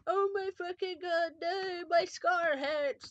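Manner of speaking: high, loud, drawn-out wailing; hammed-up agonised scream. A narrator's reading. Harry cries that his scar hurts, wailing scream. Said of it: "Then he started to scream".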